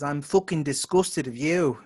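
slow Midlands imitation slipping into Irish; bad Midlands accent. Quoting her favorite slip, in a bad Midlands accent. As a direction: draw out a badly faked Midlands accent. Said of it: "a bad imitation of a Midlands accent".

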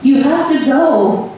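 high, slow, weakening cry; a drawn-out plea, pitched high; mildly shouted, strength running out; loud but weak. A narrator's reading. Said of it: "her voice loud but weak".

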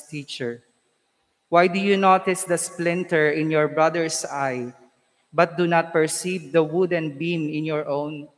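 solemn, measured liturgical reading; Gospel proclamation. Acted.

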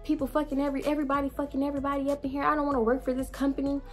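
high, fast, scornful tirade; heated rant. Retold or imitated. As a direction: rattle off every grievance. Ranting at the store.

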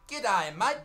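"G'day, mate" spelt out slowly, rising on mate; tourist's careful attempt at "G'day, mate"; overdone "G'day, mate", each word separate; wrong Aussie slang. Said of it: "Don't come up to an Australian and say".

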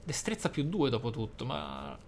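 normal talking voice

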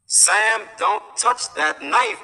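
a mother calling out to stop her son; mother crying out. A narrator's reading. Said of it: "cried his mother".

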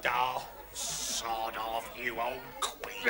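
very slow, dragged-out dismissal; drawn-out scornful insult. Acted. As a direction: stretch the insult out with contempt. Insult answering sentimental speech.

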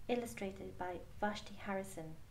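plain reading voice

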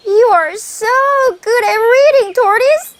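butter up the tortoise; flattering hare. Acted. 토끼가 거북이를 치켜세우는 들뜬 목소리.

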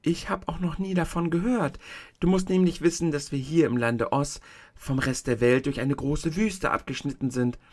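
a hint of a kindly tiny old woman; old witch of the North. The tiny old woman shows Dorothy the feet, gently voiced.

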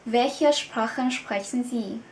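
slow, careful formal question; slow model sentence. Shown as a demonstration. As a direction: model it slowly for learners. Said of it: "chúng ta sẽ nói".

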